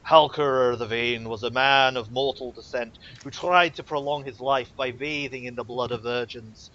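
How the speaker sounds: solemn priestly sermon. Acted. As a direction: preach it like a templar. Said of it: "going into his sermon voice".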